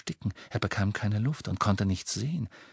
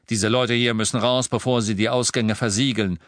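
louder, firm commanding voice; authoritative; 4 dB louder than usual. Acted. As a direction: order it with full authority. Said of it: "mit aller Autorität".

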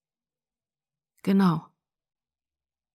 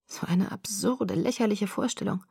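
incredulous whisper; 5 dB quieter than usual. Acted. Edward to Bella, whispered disbelief. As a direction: breathe out disbelief.

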